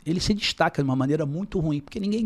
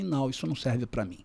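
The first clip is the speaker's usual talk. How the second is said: calm, softer-spoken boundary; calm refusal; 6 dB quieter than usual. Acted. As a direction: turn it down calmly, without raising your voice. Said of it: "eu posso falar com você bem tranquilo".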